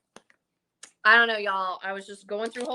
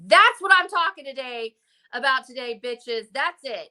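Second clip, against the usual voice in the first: fired-up declaration; 3 semitones higher, 4 dB louder than usual. Retold or imitated. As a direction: punch it out like a rallying cry. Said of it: "And you're like".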